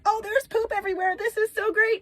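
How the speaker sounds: put-on high, singsong child voice; gleeful little girls. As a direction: imitate delighted children running around. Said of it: "the girls are running around like".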